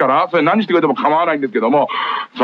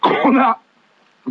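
slow stretched コーナー; drawn-out call; 6 semitones higher, much slower than usual. Real, not acted. Host moving the show on, slow drawn-out call. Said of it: "コーナー行くか、曲行くかですね".

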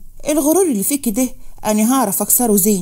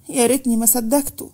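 a tearful "يا ريتني" lament; tearful regret. Acted. Manal regretting trusting Fahd, tearful. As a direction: sigh "يا ريتني ما صدقته" out in regret. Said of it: "اتكلمت منال بدموع".

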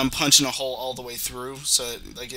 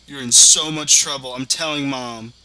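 put-on childish threat; 7 dB louder than usual. Mock tattling sibling threat.

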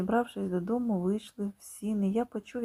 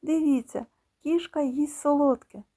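louder, higher excited call; 6 semitones higher, 4 dB louder than usual. Acted. Petryk shouting to everyone that the cat eats. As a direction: call out to the whole table. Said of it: "гукнув Петрик".

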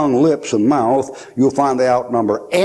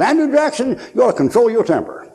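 raised scolding call; 9 semitones higher than usual. Retold or imitated. Man scolds Andrew Jackson.

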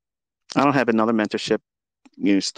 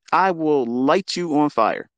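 slow threat; 4 semitones higher, much slower than usual. Real, not acted. Threatening a rival on camera.

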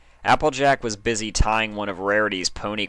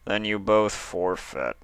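simply. Acted. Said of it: "Mister Gray said simply".

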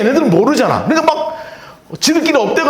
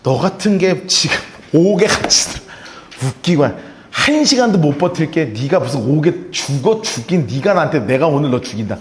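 contemptuous scorn; 7 semitones lower than usual. Retold or imitated. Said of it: "증오, 한심함".

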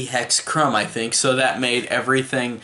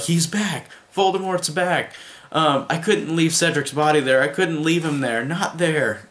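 retold plea; 5 semitones higher than usual. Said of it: "Harry says to Dumbledore".

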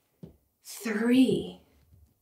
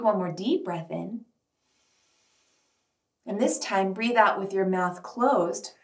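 guided meditation. Acted. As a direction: lead them gently inward. Guided breathing check-in.

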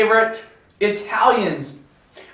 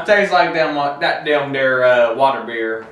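lightly put-on hillbilly voice; country bumpkin mocking beer; hillbilly accent; 5 semitones lower than usual. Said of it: "stop doing that now".

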